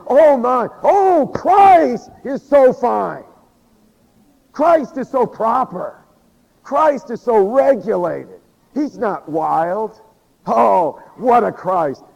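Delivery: high, loud, slow mock rapture. Shown as a demonstration. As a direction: ham up a swooning worshipper. Mock of overly proper praise.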